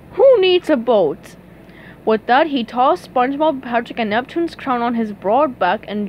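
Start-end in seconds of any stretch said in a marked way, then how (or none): 0.1-1.4 loud, slow boastful question; amused lifeguard. A narrator's reading. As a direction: scoff heartily, full of bravado. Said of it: "threw back his handsome head and laughed".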